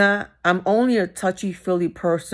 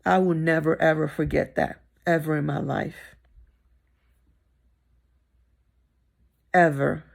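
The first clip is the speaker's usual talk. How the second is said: getting emotional. Real, not acted. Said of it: "And I'm getting emotional now".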